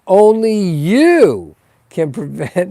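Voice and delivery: slow, stressed "you" with a rising lilt; a hint of the PSA announcer; Smokey the Bear slogan. To the viewers, a mock Smokey the Bear warning, lightly voiced. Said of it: "now I'm using the Smokey the Bear".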